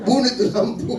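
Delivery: high imitated wife's yell; shouting. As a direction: shout it like an order from the next room. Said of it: "dari dalam kamar itu berteriak".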